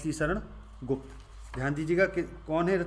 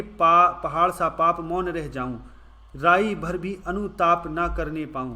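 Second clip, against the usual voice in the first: louder, slow recital of the couplet; poem recitation; 6 dB louder than usual. Acted. Teacher reading the couplet before the question, slow and loud. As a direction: read each word deliberately. Reads the verse slowly.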